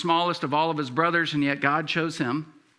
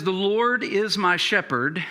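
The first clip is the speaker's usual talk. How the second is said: slow scripture reading; slower than usual. Shown as a demonstration. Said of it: "Listen to these words. This is the way he says it".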